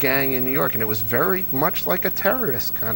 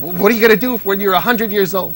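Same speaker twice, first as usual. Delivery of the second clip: quoting questioners; 7 semitones higher, 9 dB louder, faster than usual. Retold or imitated. Reporters' question in retold anecdote.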